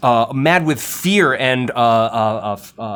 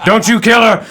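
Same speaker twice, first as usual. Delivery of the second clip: loud high frantic bellow; bellowing chieftain; 12 semitones higher, 9 dB louder than usual. Acted. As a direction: scream it like a desperate father. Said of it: "you hear the sound of him".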